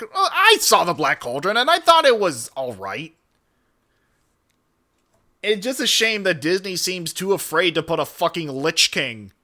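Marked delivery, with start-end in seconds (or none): 0.0-3.1 put-on swooping delivery, louder on the peaks; mock offhand aside. Fan of the Black Cauldron answering the naysayers, mock-lilting. Mock reply to own rant.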